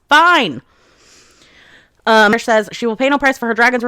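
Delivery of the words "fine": sharp high shout of Fine; imitated yell from a furious vice commandant; retold yell. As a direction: bark it out loud and high. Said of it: "Varish yells".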